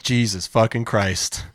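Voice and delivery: low, drawn-out mock exasperation; exasperated listeners. Podcaster voices listeners fed up with the hosts, slow mock exasperation.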